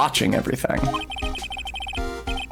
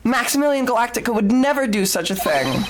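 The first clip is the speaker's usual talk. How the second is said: flamboyant magician; 6 semitones higher than usual. Acted. Voicing flamboyant magician Max.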